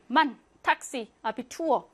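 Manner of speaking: 만, 탁시, 아비투어 with short a sounds; short vowels. Shown as a demonstration. Teacher reading short-vowel examples, brief a in 만, 탁시, 아비투어. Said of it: "이렇게 짧게 발음하고요".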